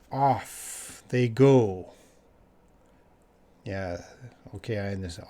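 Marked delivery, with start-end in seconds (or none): 0.1-1.9 off they go, drawn out very slowly; slow demo. Shown as a demonstration. Teacher slowly modelling the phrase for students, very slow. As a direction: spell it out slowly for the class. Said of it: "So off".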